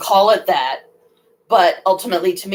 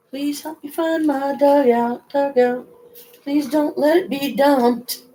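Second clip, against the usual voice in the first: pleading; 7 semitones higher, slower than usual. Real, not acted. Pleading to find dugout.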